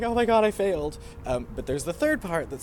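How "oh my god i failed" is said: mock crying wail. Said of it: "wants to cry and just be like".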